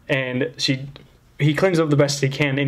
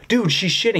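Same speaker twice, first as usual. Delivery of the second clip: retold yell; 7 semitones higher than usual. Friend yelling across the parking lot, in a mock yell. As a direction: imitate yelling across a distance. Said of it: "He's, like, yelling this across the parking lot".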